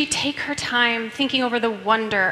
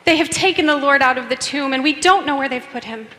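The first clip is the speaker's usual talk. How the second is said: anguished cry; 3 semitones higher, 5 dB louder than usual. Acted. Mary's anguished cry to disciples.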